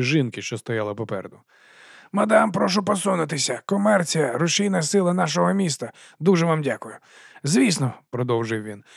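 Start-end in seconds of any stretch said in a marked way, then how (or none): 2.1-7.9 higher, eager huckster voice; chummy sausage seller greeting the watch; fast-talking street vendor. Acted. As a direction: sell it with a grin you can hear. Narrator voices Dibbler.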